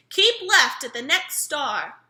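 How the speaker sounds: slow, loud, bossy navigator voice; bossy sat-nav lady. A narrator's reading. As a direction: announce it like a stern GPS. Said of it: "in a bossy lady's voice".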